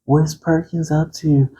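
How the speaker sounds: lightly voiced nosy fan; curious viewer. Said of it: "So you're like".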